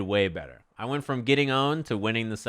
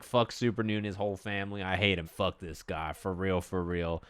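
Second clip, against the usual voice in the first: impersonated trash talker; 4 semitones lower, 6 dB quieter than usual. Retold or imitated. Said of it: "Hook Gang God's like".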